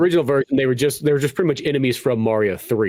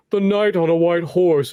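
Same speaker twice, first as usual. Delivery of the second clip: mock gallant knight; 2 semitones higher, slower than usual. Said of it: "he talks like this".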